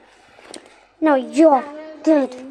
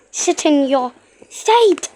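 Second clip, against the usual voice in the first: slow stern order; slower than usual. Pretend. Ordering a toy to sit.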